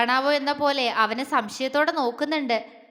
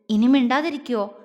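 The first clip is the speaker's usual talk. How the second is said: lovingly. Acted. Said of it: "അവൻ സ്നേഹത്തോടെ ചോദിച്ചു".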